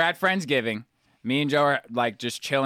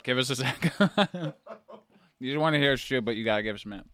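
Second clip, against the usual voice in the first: laughing; 3 dB quieter, much faster than usual. Real, not acted. Laughing while chewing.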